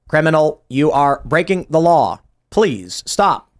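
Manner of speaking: slow, flat police robot. Pretend. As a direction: announce it like a polite robot. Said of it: "And then the robot goes".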